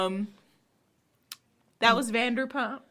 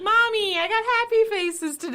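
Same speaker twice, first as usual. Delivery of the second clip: higher, mock little-kid voice; 4 semitones higher than usual. Child tells mommy about school, mock proud.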